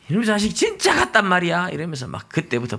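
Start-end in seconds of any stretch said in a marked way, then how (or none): 0.1-1.7 mock furious mom. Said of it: "엄마 진짜 화나는 거예요".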